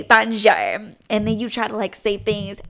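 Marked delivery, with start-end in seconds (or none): 0.0-0.5 mock clueless tourist. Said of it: "walk in there with your little red beret on".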